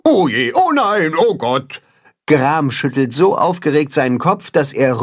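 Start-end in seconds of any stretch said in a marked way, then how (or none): 0.1-1.8 higher fretting; panicking. Acted. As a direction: wail it, flustered. Goose panics.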